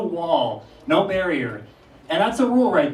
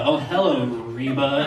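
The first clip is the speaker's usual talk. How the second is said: mock disdainful hello; 3 semitones lower, slower than usual. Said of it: "That'd be her with Reba".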